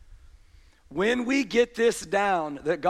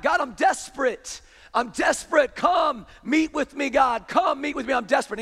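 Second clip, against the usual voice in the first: crying out to God; 4 semitones higher than usual. Retold or imitated. Preacher reliving his own prayer: raised, pleading cry. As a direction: call out to God, desperate and raised. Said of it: "where I've just kind of been crying out".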